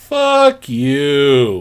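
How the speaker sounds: swooping curse with a drawn-out "you". Retelling a film scene where the ugly doll curses: imitating the doll cursing. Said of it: "the greatest "fuck you" I've ever heard".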